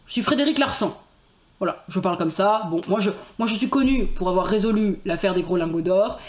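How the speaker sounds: lightly voiced rough-and-ready detective; a hint of blunt, badly done northern accent; Frédéric Larsan. Detective introducing his famous case, lightly rough ch'ti voice. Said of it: "une voix un peu brute de décoffrage".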